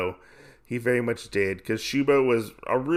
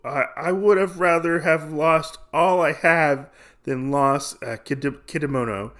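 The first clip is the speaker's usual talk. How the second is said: halting, lightly faked grief; mock crying; 4 semitones higher than usual. Gambler lamenting his dead friend, half-hearted mock crying. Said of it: "he starts to cry".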